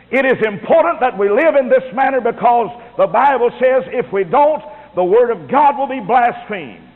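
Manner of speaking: emphatic sermon voice; preaching. Acted.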